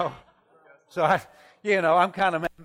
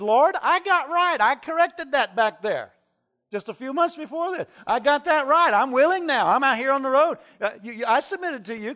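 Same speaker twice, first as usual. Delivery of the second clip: pleading with God; 9 semitones higher, 6 dB louder than usual. Retold or imitated.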